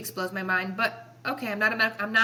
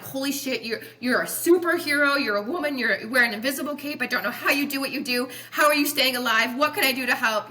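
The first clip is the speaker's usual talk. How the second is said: higher, excited run of retold awe; amazed admiration; 4 semitones higher, 4 dB louder than usual. Doctor marvelling at a new mother, amazed admiration. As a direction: gush at her as if at a superhero.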